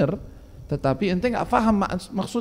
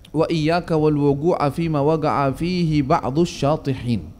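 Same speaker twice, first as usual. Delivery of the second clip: slow Arabic recitation; slower than usual. Acted. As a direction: recite the Arabic slowly, measured. Reciting Arabic text of nasihat. (bacaan Arab pelan dan khidmat)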